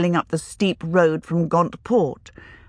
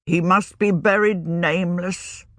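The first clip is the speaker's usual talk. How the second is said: regretful and bitter. Acted. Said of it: "he said with regret and bitterness".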